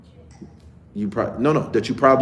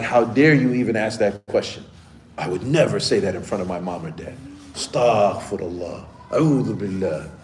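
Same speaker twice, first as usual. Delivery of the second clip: put-on indignant kid; 5 semitones lower, 3 dB quieter than usual. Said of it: "most indignant look on their face".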